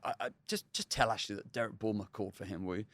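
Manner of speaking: mock old English gentleman faking the Michelin editor. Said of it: "I put on an old English gentleman's voice".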